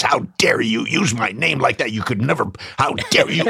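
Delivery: mock indignant confrontation, rising at the end; retold angry outburst. Gary races in to confront Jamie, mock outrage. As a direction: imitate someone chewing a colleague out.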